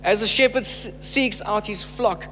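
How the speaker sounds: measured, weighty scripture reading with slowed phrases. Acted. Preacher reading Ezekiel aloud to church, measured proclamation. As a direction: proclaim God's words to the congregation.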